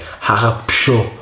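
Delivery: Hache Psho with the P sounded before sho; P pronounced. Shown as a demonstration. Reviewer settling how to say the beer's name, P pronounced in Psho. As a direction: say Psho with an audible P. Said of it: "I don't know if you pronounce the P".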